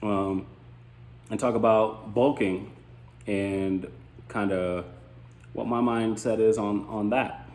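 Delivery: talking while chewing gum. Real, not acted. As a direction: chew gum through the words. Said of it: "while I have gum in my mouth".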